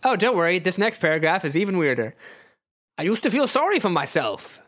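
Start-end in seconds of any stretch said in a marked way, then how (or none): 3.0-4.6 put-on high, accented confession; Nightcrawler. Nightcrawler confides in Wolverine, high accented voice. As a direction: confide in a raised character voice. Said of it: "you tell Wolverine".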